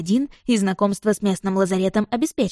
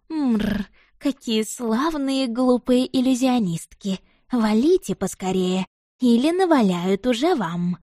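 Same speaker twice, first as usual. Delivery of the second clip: purring cat spirit; 3 semitones higher, slower than usual. Acted.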